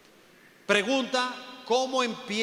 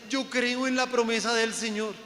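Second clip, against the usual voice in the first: lightly voiced smug believer, pitched higher; mocking the believers; 6 semitones higher than usual. Preacher mimicking believers who keep borrowing, mock pious. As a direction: parrot the complacent believer. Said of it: "entonces la gente es".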